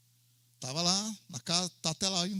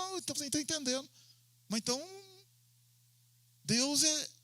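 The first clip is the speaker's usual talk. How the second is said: quick, higher, soft reasoning; eager student; 7 semitones higher, 4 dB quieter than usual. Retold or imitated. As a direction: rush through it like the student. Pastor voices student reasoning. (aluno apressado, voz aguda e rápida)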